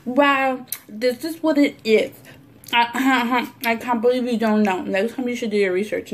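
condescending smart-ass voice; mocking a smug commenter; mock know-it-all. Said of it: "people act smart about it".

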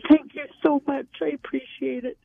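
overwhelmed, grateful gushing; about to cry. Real, not acted. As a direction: thank them as if tears are coming. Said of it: "I'm gonna cry".

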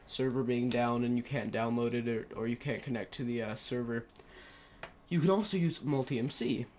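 breathless, rushing through the words; talking fast and out of breath. Real, not acted. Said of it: "running out of breath".

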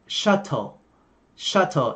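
British "shuttle" with a crisp aspirated t; British hard t in "shuttle"; British accent. Shown as a demonstration. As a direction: say "shuttle" with a true t, British style. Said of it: "Giọng Anh là".

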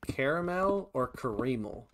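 caramel first as CARE-uh-mel, then as kuh-REE-mul; two pronunciations. Shown as a demonstration. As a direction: contrast the two ways of saying caramel, second one kuh-REE-mul. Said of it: "Do you pronounce it".

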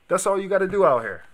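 high, loud disbelieving yell; loud outraged bro; exasperated shout. Real, not acted. Exasperated outburst repeated.

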